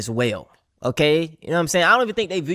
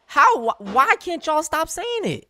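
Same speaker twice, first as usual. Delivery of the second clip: slow, much higher, pleading whine; exasperated plea; 13 semitones higher, slower than usual. Real, not acted. Creator pleading with commenters, slow exasperated whine. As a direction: beg them to stop, fed up.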